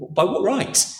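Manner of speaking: high, rising affronted question; indignant challenge. Retold or imitated. Tour visitor challenging the stranger, indignant rising question. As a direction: demand it, put out and incredulous. Bystander challenges intruder in palace.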